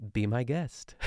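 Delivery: lightly imitating a host's flourish; little flourish. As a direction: say it with a small lift at the end. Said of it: "with a little flourish".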